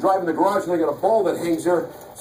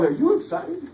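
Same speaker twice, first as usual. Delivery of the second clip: mock excited question; 8 semitones higher than usual. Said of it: "and I go".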